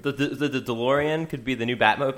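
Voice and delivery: stutters on "the" before DeLorean; stammering imitation. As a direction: stumble over the opening words. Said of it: "just how you did it. Perfect".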